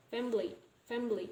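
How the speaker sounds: "family" in two syllables, fam-ly; deleted i. Shown as a demonstration. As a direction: drop the middle i of "family". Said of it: "deletion of I sound".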